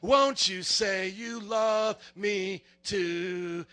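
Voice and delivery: slow, lightly sung Barney voice. Retold or imitated. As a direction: croon it like the purple dinosaur, lightly. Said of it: "like he's Barney".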